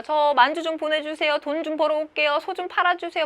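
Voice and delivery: lightly voiced begging son, pitch lifted; pleading son. Son begs father to sell the ox, lightly pleading.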